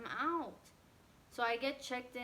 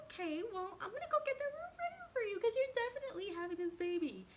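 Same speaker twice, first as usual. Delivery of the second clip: higher, brisk nurse voice; nurse, urgent; 4 dB louder than usual. Retold or imitated. Nurse telling her she's definitely having this baby, urgently. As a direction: play the nurse suddenly realizing it's time. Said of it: "And she goes".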